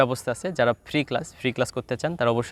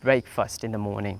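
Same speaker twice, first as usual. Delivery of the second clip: slow model question; much slower than usual. Shown as a demonstration. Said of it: "পাঁচ নম্বর যে কোয়েশ্চেনটার ক্ষেত্রে".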